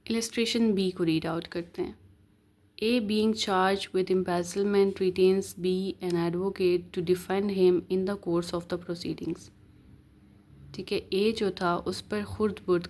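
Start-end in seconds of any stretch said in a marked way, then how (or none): 2.8-9.5 slow, deliberate reading of legal text; measured recital of the law; reading the statute. Acted. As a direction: read each word out slowly like dictation. Reads out illustration B.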